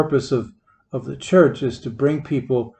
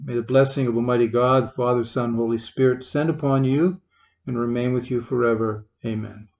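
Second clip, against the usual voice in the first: priestly blessing. Real, not acted. Priest blessing the congregation at the end of Mass, solemn and gentle.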